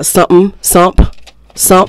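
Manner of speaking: SOMETHING cut down to "sump'm"; casual SOMETHING, squeezed to "sump"; shortened word. Shown as a demonstration. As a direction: drop the TH from SOMETHING. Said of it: "Straight from Cockney".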